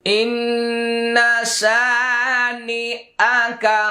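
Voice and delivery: slow recited ইন্না শানি আকা; teacher recites the line with ghunna; recitation. Shown as a demonstration. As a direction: chant it with the nasal held. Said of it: "এটা ওয়াজিব গুন্না".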